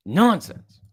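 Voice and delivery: "Nonsense" said high and loud in a put-on voice; mock nonsense. Shown as a demonstration. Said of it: "That's nonsense".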